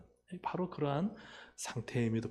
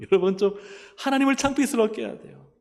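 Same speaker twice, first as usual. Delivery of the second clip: higher and louder declaration; emphatic preaching; 8 semitones higher, 9 dB louder than usual. Real, not acted. Preacher urging the congregation, loud and high. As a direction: drive the point home hard.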